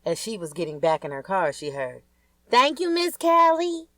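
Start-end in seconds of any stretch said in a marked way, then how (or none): 2.5-3.9 put-on grateful kid. Kid thanks her for money.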